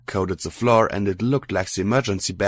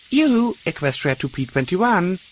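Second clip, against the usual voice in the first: calling out; 11 semitones higher than usual. Acted. Calling a daydreaming friend.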